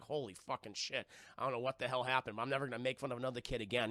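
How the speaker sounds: low, hushed, hurried mumbling to himself; scared, shell-shocked. Retold or imitated. Imitating Pete's thousand-yard stare after rescue, subdued fright. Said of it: "he's just, like, just scared".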